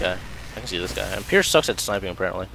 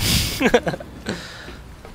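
real high chuckling burst; exasperated laugh; 10 semitones higher than usual. Real, not acted. Gamer threatening to stop playing, exasperated laugh. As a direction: laugh at how annoyed you have become.

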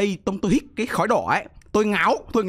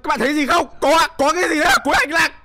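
much higher, loud excited shouting; startled streamer shouting at viewers; 10 semitones higher, 8 dB louder than usual. Real, not acted. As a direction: shout it out, thrilled and spooked.

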